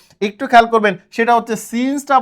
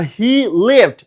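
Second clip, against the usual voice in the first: slow example. Shown as a demonstration. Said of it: "আমি যদি বলি".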